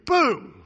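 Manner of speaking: loud high shouted boom; explosion boom. Retold or imitated. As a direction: blast it out like an explosion. Mimics God wiping out enemy.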